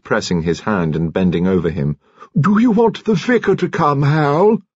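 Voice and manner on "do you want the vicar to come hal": much higher, pleading question; wife asking her dying husband if he wants the vicar; urgent tender question. A narrator's reading. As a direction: lean close and ask gently but urgently.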